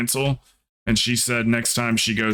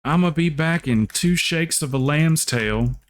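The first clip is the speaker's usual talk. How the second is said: higher, slow Southern drawl; country teacher impression; 5 semitones higher than usual. Imitating her country teacher's favorite saying, higher Southern drawl. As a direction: put on the schoolteacher's Southern voice. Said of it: "used to have this real country teacher".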